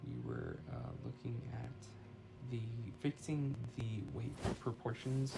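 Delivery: distant phone mic sound; speaking away from the phone mic; far from mic. Real, not acted. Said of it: "Sorry if my voice sounds a little far away".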